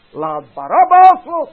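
loud, high demand; crowd shout. Acted. Crowd shouting for Barabbas's release, loud high demand. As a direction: bellow it for his release. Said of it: "En wat roept dan het volk?".

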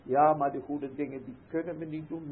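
ordinary delivery

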